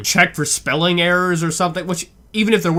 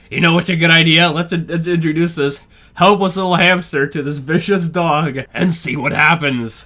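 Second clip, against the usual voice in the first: mock suggestion. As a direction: propose it as if it were brilliant, slowing at the end. Sarcastically acts out the bad idea.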